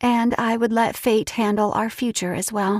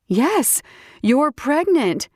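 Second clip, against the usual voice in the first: excited; 5 semitones higher, slower than usual. Acted. Friend shares joyful news.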